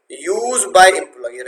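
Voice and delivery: very slow, stretched use by employee; slow classroom dictation; drawn-out term. Shown as a demonstration. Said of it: "teaching the formula".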